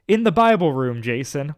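calling out. Acted. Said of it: "Whit said from under the imagination station".

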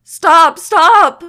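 very high, screamed plea; desperate yell. A narrator's reading. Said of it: "Iggy yelled, tears running down his cheeks".

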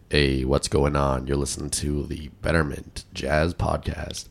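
lightly deepened smooth radio intro; deep radio host. Pretend. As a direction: croon it like a smooth podcast host. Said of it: "imagine us starting a podcast and going".

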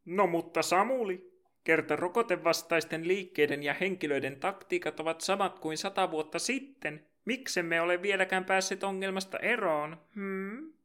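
a hint of a cheeky questioner butting in; mock heckler. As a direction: play a smug interrupting co-host. Second voice heckles the host.

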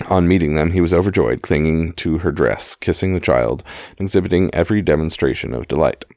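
measured audiobook-style reading; story narration. A narrator's reading. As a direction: read the memoir aloud in clear phrases. Reads a book aloud.

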